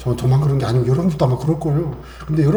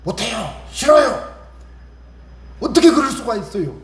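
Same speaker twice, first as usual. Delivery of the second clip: mock childish protest, rising higher; stubborn refusal; 5 semitones higher than usual. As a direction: whine it like a sulking child refusing. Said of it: "막 고집을 부려요". (떼쓰듯 고집부리는 말투)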